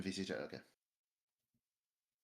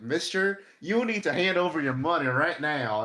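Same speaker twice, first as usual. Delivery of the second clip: gruff holdup demand, higher pitched; outlaw robber voice; 6 semitones higher, 7 dB louder than usual. Acted. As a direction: play a bandit demanding cash. Bandit robbing at gunpoint.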